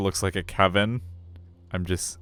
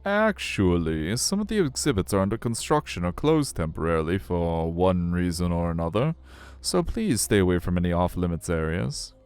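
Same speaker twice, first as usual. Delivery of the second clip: aquarium guide, hedging. Acted. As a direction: politely correct the birthday girl, sing-song.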